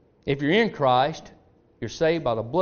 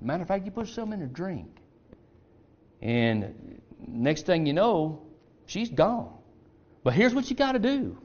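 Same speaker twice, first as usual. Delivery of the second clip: a lightly voiced father, higher, hushed and conspiratorial; a sly old father giving secret advice, pitched up a little; scheming father; 5 semitones higher than usual.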